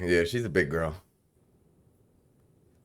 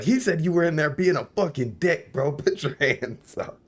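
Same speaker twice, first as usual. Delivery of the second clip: imitated gang enforcer; 10 semitones higher than usual. Gangster coming back out with hands-up order, mock stern. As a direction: play the guy ordering hands up, slowing down at the end. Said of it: "he comes back out and he's like".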